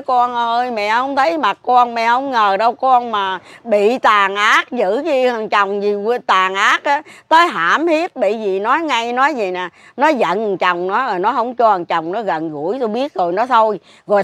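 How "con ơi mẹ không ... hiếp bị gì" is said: grieving lament. Retold or imitated. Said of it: "chuyến này tôi nói".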